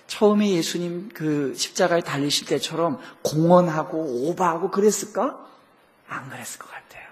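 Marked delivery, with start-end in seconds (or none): 6.1-7.0 whisper. Real, not acted. Quiet musing aside.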